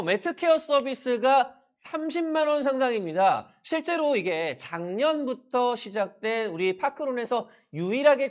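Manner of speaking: loud, bright home shopping pitch; shopping host voice. Pretend. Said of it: "쇼호스트처럼 한번 소개해 보겠습니다".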